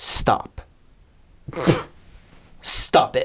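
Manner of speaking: a woman's voice, copied closely. Speaker mimics what a woman said in a video clip, imitating a woman. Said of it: "I was trying to imitate her".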